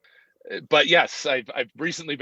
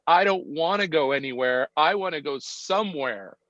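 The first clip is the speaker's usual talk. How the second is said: mildly imitated upset child, pitch a little raised; retold tearful upset; 4 semitones higher than usual. Father quoting his four-year-old daughter's plea in the car, mildly tearful. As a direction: lightly voice a small child's tearful protest. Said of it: "in the most tearful, upset words".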